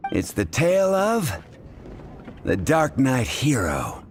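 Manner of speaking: slow, weighty reveal of the name; dramatic announcement. Acted. Bartender dramatically naming the legend to the traveler, slow and weighty. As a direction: lean into the legend's title like a storyteller.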